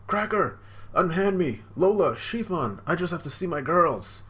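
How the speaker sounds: high-pitched character voice. Retold or imitated. Voicing the character's plea.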